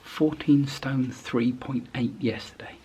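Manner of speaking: whispering; hushed whisper at the scales; quiet at night. Real, not acted. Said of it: "I'm gonna do it quietly".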